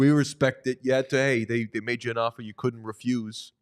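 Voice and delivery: put-on light Boston accent, mobster tone; a hint of a Boston accent, like The Sopranos. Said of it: "It's my Boston accent impression".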